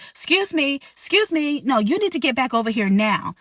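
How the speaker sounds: high, pushy excuse me; demanding customer. Retold or imitated. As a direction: call out like an entitled guest. Rude guest calling server.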